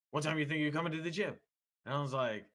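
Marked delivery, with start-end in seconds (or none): 0.1-1.4 lightly voiced caller, higher and quick. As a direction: mimic the gym rep's rapid phone question, pitched up. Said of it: "he was talking really loud".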